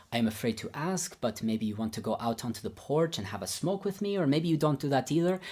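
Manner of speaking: imitated Babayan accent, tentative, rising at the end. Teacher cautiously offering a smoke, in imitated Babayan accent. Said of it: "I'll do my best Babayan accent".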